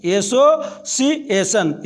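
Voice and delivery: एसोसिएशन in separated chunks, एसो-सी-एशन; split into syllables. Shown as a demonstration. Teacher counting syllables, एसोसिएशन said in parts. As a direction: divide एसोसिएशन into its sound groups. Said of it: "इसमें तीन syllable हैं".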